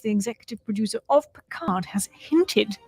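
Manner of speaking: whispered secret; gossip whisper. Acted. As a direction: lean in and whisper it like juicy gossip.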